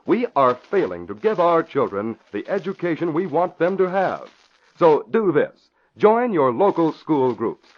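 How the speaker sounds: earnest, measured announcer read; public service appeal. Acted. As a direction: urge parents to act.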